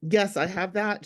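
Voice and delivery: blocked nose from a cold; congested voice. Real, not acted. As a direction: speak with a stuffy, congested nose. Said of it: "you sound very congested".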